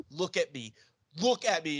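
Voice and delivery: hammed-up shouted order; mock commanding. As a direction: demand attention like a pirate. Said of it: "I'm just like".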